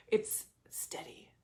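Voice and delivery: slow breathy whisper. Shown as a demonstration. Repeating her heart's message to viewers, slow whisper. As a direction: let it out slowly as a whisper. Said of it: "echoing the whisper".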